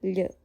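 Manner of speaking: L softened with a y-glide; short palatal L; soft L. Shown as a demonstration. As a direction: say the L palatalised, like "lyuh". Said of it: "the soft one".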